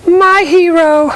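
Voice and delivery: very high, slow, swooning sigh; swooning damsel. Acted. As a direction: swoon like a rescued heroine. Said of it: "I just put on three masks".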